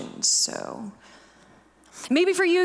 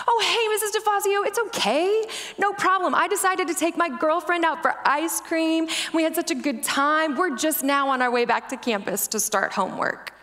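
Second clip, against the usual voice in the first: put-on breezy, higher, quicker college kid; carefree student voice; 4 semitones higher than usual. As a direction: play the cheerful oblivious student. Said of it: "they respond".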